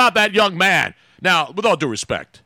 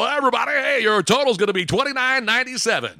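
higher-pitched mock radio DJ; radio announcer voice; 6 semitones higher than usual. Host mimicking the drive-thru worker reading an order, radio announcer. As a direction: read the order total like a radio jock. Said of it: "he's doing his round radio".

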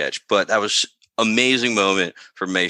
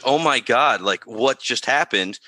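surprised trooper; 3 semitones higher than usual. Retold or imitated. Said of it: "he's like".

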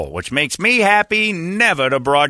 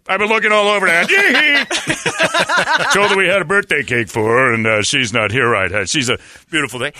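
hint of a famous singer; 5 semitones higher, faster than usual.

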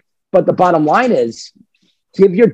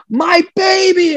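gushing dog owner; 13 semitones higher, slower than usual. Retold or imitated. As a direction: coo at your dog as you walk in. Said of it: "we're like".

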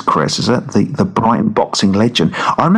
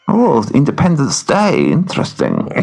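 put-on German-ish accent; 4 semitones higher than usual. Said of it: "That's more German".

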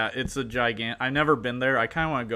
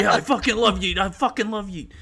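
imitating a gushing fan, higher and louder with a laugh; excited fan; 6 semitones higher, 5 dB louder than usual. Fan gushing to the interviewer about the rapper, excited and laughing. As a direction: play the thrilled fan who just met his idol. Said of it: "they'll be like".

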